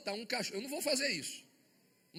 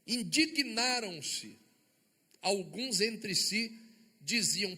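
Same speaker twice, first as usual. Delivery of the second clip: slow dramatic reading; 4 dB louder, much slower than usual. Acted.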